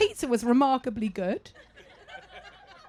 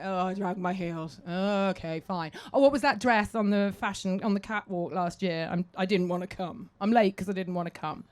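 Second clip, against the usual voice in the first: reluctant grumble; 3 semitones lower than usual. Retold or imitated. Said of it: "you're like".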